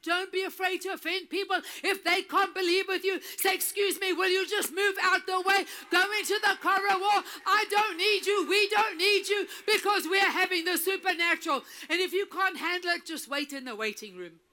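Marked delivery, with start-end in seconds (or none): 3.6-11.6 shouting. Pretend. Shouted mock eviction of unbelievers.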